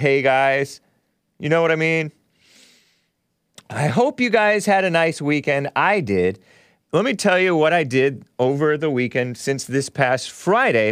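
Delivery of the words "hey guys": deep, low-pitched voice. Greeting the viewers after forgetting to: deep voice greeting. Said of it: "I forgot to say my deep voice".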